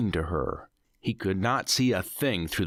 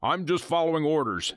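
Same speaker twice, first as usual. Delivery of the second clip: Nathan snapping; 8 semitones higher than usual. Acted. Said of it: "Nathan snapped".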